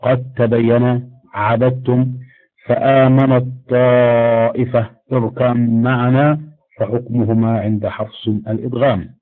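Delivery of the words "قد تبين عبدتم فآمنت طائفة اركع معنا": recited slowly, each merge drawn out; slow Quranic recitation. Shown as a demonstration. Teacher recites examples of similar letters, slow recitation. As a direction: recite the verses so the merged letters are heard. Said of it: "مثل إذ ظلموا".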